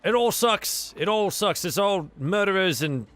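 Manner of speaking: lightly voiced fed-up sailor; a touch of disgust, griping on his way out; ship hand, disgusted.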